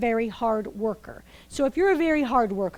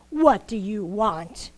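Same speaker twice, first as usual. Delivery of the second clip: gruff well keeper; 3 semitones lower, much slower than usual. Acted. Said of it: "And Mabuya said".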